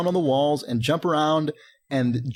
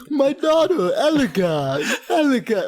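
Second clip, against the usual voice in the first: high, loud hammed-up lisp; mock a father with a lisp; lisping king voice; 10 semitones higher, 4 dB louder, slower than usual. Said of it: "deep voice ... a lisp".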